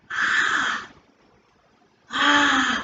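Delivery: short angry burst of ah; attack grunt. Shown as a demonstration. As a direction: thrust out a sharp ah like an attack. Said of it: "notice my facial expressions and my movements".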